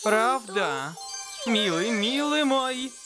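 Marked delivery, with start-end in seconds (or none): 1.5-2.9 cooing. Acted. Cooing over cute girl.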